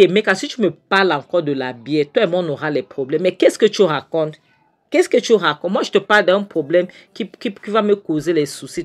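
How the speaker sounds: voix qui monte, plus forte, exaspérée; s'emporter contre l'ami qui parle de bière; en colère. Retold or imitated. Friend angrily refuses beer talk. (colère franche d'un homme pressé)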